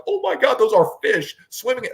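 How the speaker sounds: imitating a stunned client, pitch jumping way up; mock awe at seeing fish live on screen; amazed first-timer. Guide imitating a first-time client seeing LiveScope, wide-eyed awe. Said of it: "they crap their pants".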